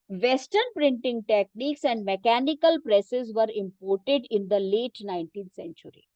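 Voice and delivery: reading a textbook sentence very slowly for students to follow; teacher reading the book aloud, slow and measured. Shown as a demonstration. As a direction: dictate it slowly, word by word.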